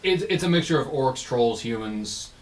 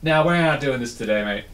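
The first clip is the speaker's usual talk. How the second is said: lightly voiced, slightly raised dismissal; unimpressed shaman; 3 semitones higher, 4 dB louder than usual. Shaman seeing through the illusion, mildly dismissive. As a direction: brush it off as a sceptical shaman. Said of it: "they're a shaman or a sorcerer".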